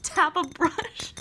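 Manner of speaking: slow, hushed ASMR whisper; imitated whisper. Imitating the woman in the ball-preparation video, little whisper. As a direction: whisper it slowly, like an ASMR host. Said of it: "she has, like, a little whispering voice".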